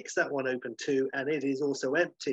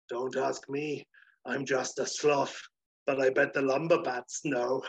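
lazy sloth. Acted. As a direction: shrug it off lazily.

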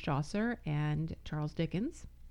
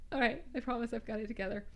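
ordinary talk, nothing marked

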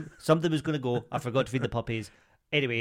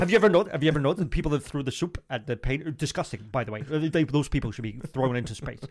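Andrew Tate impression. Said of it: "Andrew Tate, innit?".

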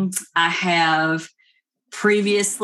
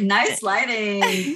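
slow, amused aside through a laugh; slow giggly nice lighting; laughing mock compliment; much slower than usual. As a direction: say it slowly, half laughing. Mocking herself on ring lights.

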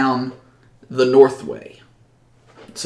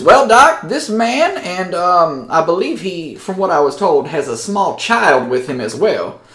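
high, louder mayor voice; mayor welcoming the strangers, high and loud; 6 semitones higher, 4 dB louder than usual. Acted. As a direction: play the town mayor, pitched high and eager. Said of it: "the mayor says".

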